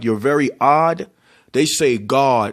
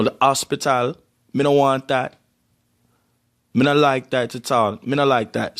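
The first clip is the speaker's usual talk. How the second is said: imitating a mother's strong Jamaican accent. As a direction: do a Jamaican mama speaking patois. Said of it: "she still got that strong accent".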